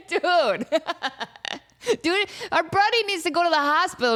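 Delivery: high, laughing "dude" in disbelief. Real, not acted. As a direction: laugh through the complaint, incredulous.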